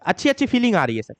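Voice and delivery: teacher mimicking students who trust feel over grammar, mock voice. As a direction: play the student defending his bad English, lightly. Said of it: "यही लोग का, आपका भूल होता है".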